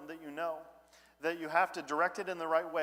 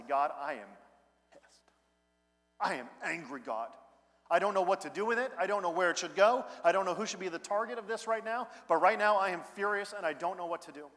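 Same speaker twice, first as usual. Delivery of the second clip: angry prayer; 3 semitones higher than usual. Pretend. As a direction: confess the anger honestly to God, rising. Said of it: "I can actually just stop and say".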